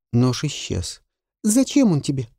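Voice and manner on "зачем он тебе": put-on high, light boyish voice; a boy calling up to his mistress; boy's voice. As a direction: call in through the window as a young boy.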